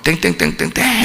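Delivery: clang out the dinner bell with your voice; imitated bell clanging. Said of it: "이렇게 칩니다". (밥 시간 종소리 흉내)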